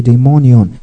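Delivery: daimonion with the MON syllable accentuated; stress on the O. Shown as a demonstration. Teacher introduces another Greek word, daimonion stressed on MON. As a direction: lean on the O after M in daimonion. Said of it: "the O after M accentuated".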